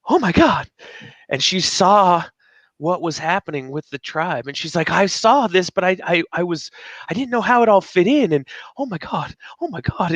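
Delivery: high, excited retold gushing; imitating excited friend. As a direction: echo her amazed rush of words. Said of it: "she was like".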